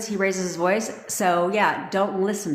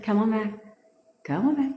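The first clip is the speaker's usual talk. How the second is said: higher, lilting coax; calling a puppy; 3 semitones higher, faster than usual. Acted. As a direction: call back a straying puppy. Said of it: "Treat 'em all like a puppy dog".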